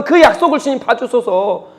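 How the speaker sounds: acting out Moses' earnest petition; intercessory prayer. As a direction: plead earnestly with God, lifting the voice. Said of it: "이렇게 기도하는 거 아닙니까".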